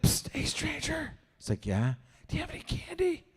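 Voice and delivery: put-on high, soft child's voice; high little kid voice. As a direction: sneak up like a small kid begging candy. Kid voice asking stranger.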